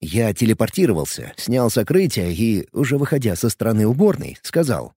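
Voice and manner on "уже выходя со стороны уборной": ordinary delivery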